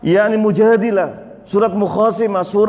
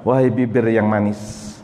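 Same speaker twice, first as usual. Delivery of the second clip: tender welcome; 6 semitones lower than usual. Acted. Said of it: "fatakulu marhaban".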